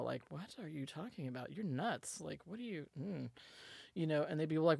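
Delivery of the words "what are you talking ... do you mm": raised-eyebrow skepticism. Retold or imitated. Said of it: "just have the one eyebrow".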